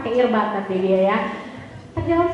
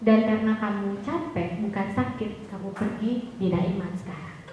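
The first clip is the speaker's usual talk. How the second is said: calm and firm; 4 semitones lower, 6 dB quieter than usual. Retold or imitated. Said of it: "Dengan tenang".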